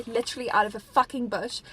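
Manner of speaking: irritated, with a push on the swear word; mildly aggressive venting. Real, not acted. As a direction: let annoyance slip out on the curse. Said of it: "that was really aggressive".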